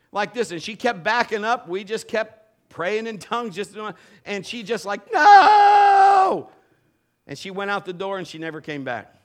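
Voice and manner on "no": very high, very loud shriek; screamed no. Retold or imitated. Fleeing woman screams her refusal, shrieking. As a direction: scream it as you flee.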